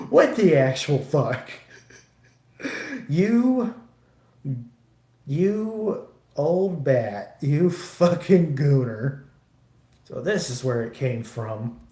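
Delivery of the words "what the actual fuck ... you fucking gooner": louder, slow teasing insult; mock outraged yell. Son mock-scolding mom for liking the sweaty men. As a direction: drag out old bat like a mock scolding.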